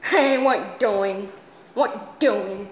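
slow, dopey put-on voice; silly character voice. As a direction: drag out each word like a dim cartoon character. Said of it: "here's a voice that people say is good".

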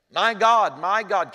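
high, loud anguished outcry; anguished cry. Acted. Preacher voicing Jesus on the cross, loud anguished cry. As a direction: cry out like a man forsaken. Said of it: "Jesus cried, screamed with a loud voice".

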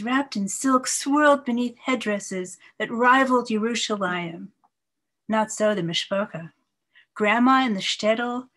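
measured, lightly lilting poem reading; poetry reading. Acted. Poet reads her poem to listeners, measured recital voice. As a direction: read it like a poet sharing her work, unhurried.

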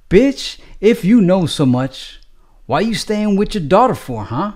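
high, sharp nagging mother-in-law voice. Acted. Mother-in-law lashing out at Donald, sharp and high. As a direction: lay into him like a fed-up in-law.

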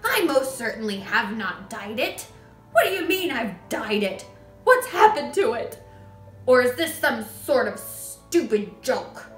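loud, mounting protest; indignant yelling. A narrator's reading. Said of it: "the father yelled".

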